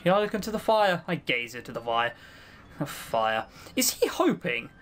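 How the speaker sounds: ancient fiend sliding from brooding into frantic despair; tormented fiend. Acted. Trapped fiend raging alone in his circle, despairing. Fiend narrates, rising to anguish.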